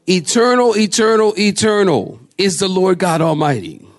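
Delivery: high proclamation, settling toward the end; mock-solemn high call; imitated crying out. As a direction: proclaim it like a seraph calling to another. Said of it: "One cried out to another and said".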